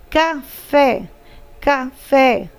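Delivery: "café" split slightly, final "fé" held; stress on FÉ. Shown as a demonstration. Teacher helping pupils hear the tonic syllable, stress on "fé" in "café". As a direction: lean on the last syllable "fé" in "café". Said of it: "Sílaba tônica é fé".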